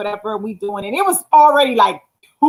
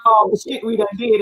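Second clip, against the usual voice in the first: ordinary delivery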